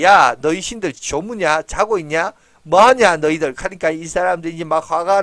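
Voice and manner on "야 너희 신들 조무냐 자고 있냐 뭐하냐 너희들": mocking taunt. Elijah lightly mocks the Baal priests, a mild jeer. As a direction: taunt the sleeping gods, a touch of scorn. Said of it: "비웃습니다".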